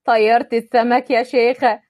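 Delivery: mock scolding in jest; joking. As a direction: kid her playfully. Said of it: "اتكلم بهزار".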